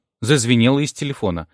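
ordinary delivery, nothing marked

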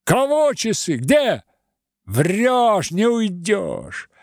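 high, loud frantic yell; woman shrieking in the crush; terrible howl. Acted. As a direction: howl it at the thief. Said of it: "взвыла страшным голосом".

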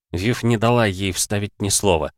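ordinary talk

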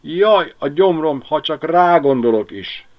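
dog groaning at the thought of eating a rat; moaning dog. A narrator's reading. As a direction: moan it like a sick stomach. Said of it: "nyögte Miska".

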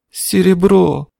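high, strained sobbing cry; forced out through sobs. Acted. Boy sobs out the loss to the woman. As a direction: choke the word out through tears. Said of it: "сквозь рыдания выдавил Лок".

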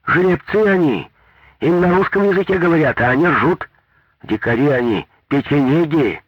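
loud, high indignant villager; indignant complaint. A narrator's reading. Village woman complaining loudly about the drivers. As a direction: scold the drivers as savages.

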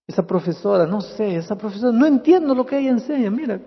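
lightly voiced sad twelve-year-old girl, pouring out her heart; sad girl praying. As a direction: tell God her bad day, half sobbing, half complaining. Preacher voices girl's sad prayer. (niña triste que le cuenta a Dios su mal día, voz apenas actuada)

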